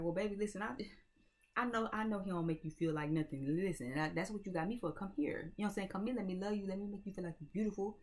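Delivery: smooth lover. Pretend. Smooth man wooing a hurt woman.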